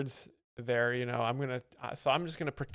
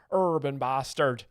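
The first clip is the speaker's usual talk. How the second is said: put-on northern English accent; 6 dB louder than usual. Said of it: "You hear that accent?".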